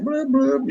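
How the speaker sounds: high-pitched playful blubs; little high noises for pencil curls; imitated sketching noises. Son mimics mom sketching the mane, high playful noises.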